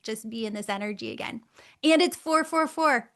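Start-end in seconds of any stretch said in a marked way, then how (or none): 1.8-3.2 high, loud laughing reveal; giggling as it lands. Real, not acted. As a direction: laugh out the punchline.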